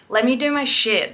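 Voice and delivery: a light mocking jab at the piercer's sass; snippy imitation, lightly done; sassy mock. Mocking the piercer to a client: sassy. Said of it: "That's just, like, sassy".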